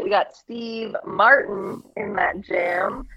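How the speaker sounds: glitchy robotic voice from a bad line. Real, not acted. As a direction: sounds like a broken robot connection. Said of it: "you sound like a robot".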